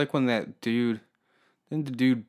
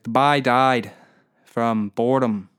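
bad Newfie accent; 5 dB louder, slower than usual. Shown as a demonstration. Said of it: "I can't do a fucking Newfie accent".

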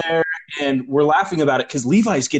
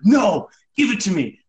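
mock insistent demand; 5 semitones higher than usual. Friend refusing to smoke and demanding the weed, mock insistent. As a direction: play a friend urgently demanding it.

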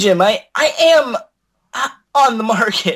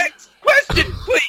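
mock wail; 10 semitones higher than usual. A guest begs to move on, crying out in mock despair. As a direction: wail it like a hammed-up crybaby. Guest pleads to change topic.

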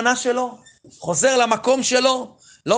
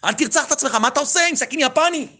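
raised, higher plea to stop; retold shout; 6 semitones higher than usual. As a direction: call out to him in alarm, a bit higher. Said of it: "צעקתי אליו ביידיש".

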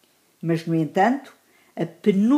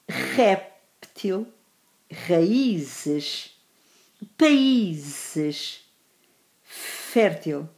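lápis, réptil, fértil with a strong first syllable; teacher's word list, punched stress in vírus, fáceis, faísca; stress on penultimate syllable; much slower than usual. Shown as a demonstration. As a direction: read raízes, países one by one, stretching the second-last syllable. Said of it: "Na penúltima sílaba, claro, porque são palavras graves".

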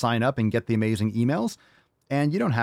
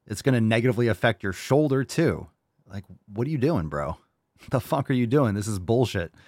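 ordinary delivery

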